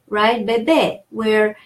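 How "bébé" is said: Bébé with the final é slightly lengthened; stress on second syllable. Shown as a demonstration. French teacher showing word stress, final syllable lengthened. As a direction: let the second syllable of Bébé last longer. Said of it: "second A makes that one a little longer".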